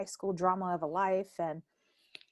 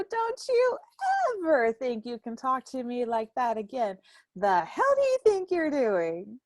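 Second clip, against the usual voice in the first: firm, slightly raised reprimand; stern scolding; 4 semitones higher, 3 dB louder than usual. Retold or imitated. A hint of aunt scolding her nephew. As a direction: lay down the law to him. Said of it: "I go".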